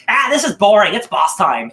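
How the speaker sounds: high, loud bored whine from Zeus; hammed-up god fed up with the story. Zeus complains to Prometheus, a loud bored whine. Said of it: "And Zeus is like".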